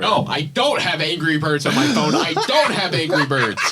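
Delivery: can barely get the words out for laughing; laughing too hard to stay in character; laughing through it. Acted.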